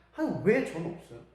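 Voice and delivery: complaining prayer. Retold or imitated. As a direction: imitate a bitter complaint to God. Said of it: "라고 원망부터 해요". (하나님께 원망하며 점점 높아지는 투정)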